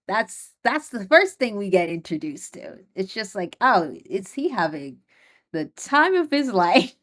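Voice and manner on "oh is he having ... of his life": sarcastic quip. Pretend. Host mocks the boy's misery with a sarcastic question. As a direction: ask it dripping with sarcasm. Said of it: "Uh, sarcastically".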